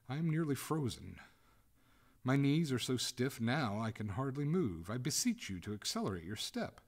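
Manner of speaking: mildly frantic complaint; distressed. A narrator's reading. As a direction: beseech them in growing distress. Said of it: "showed signs of distress".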